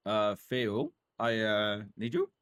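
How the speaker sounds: a touch of a hammed-up plea, rising on "you"; dramatic dialogue option. Shown as a demonstration. Streamer reading the top dialogue choice to chat, mock-dramatic. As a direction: read the top option like a swooning fan. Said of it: "we gotta say the top one".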